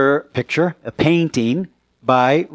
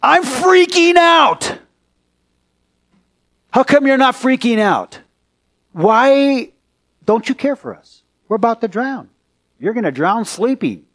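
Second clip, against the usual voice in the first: much higher, panicky pleading; freaking out; 9 semitones higher, 3 dB louder than usual. Acted. Disciples waking Jesus mid-storm, high panicked plea. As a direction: sound like a man losing his nerve. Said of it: "They're just waking him up and saying".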